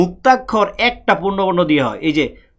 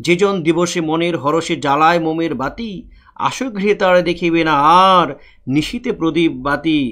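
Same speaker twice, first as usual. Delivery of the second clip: slow, measured verse reading; teacher reading a poem aloud to the class; poem recitation. Acted. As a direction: recite the lines with a steady poetic beat.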